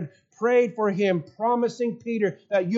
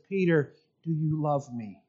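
tender question; 4 semitones lower, 5 dB quieter than usual. Acted. Jesus gently questions Peter across fire.

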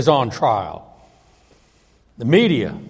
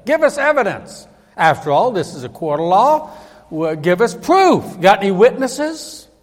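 raised, higher-pitched challenge; mock insistent demand; demanding sceptic; 5 semitones higher, 4 dB louder than usual. Acting out sceptics demanding proof.

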